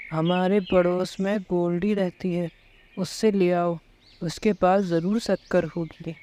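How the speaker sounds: lightly voiced weary husband asking for tea; husband Kalu.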